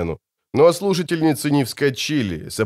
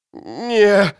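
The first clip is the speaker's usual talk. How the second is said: man down shout; 7 semitones higher than usual. A narrator's reading. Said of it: "заорал раненый".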